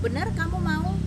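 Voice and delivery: high, loud insistent question; retold probing question; pressing to make sure. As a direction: press hard for confirmation, pitch up. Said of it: "nanya tiga kali untuk meyakinkan".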